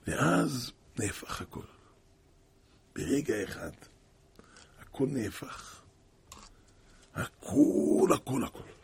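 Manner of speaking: a hushed, slowed telling of the reversal. A narrator's reading. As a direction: drop the voice for the turning point. Dramatic turn of the story.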